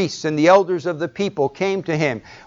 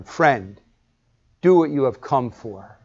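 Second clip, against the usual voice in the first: sarcastic; 3 semitones lower than usual. Acted. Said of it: "sarcastic response to Judas".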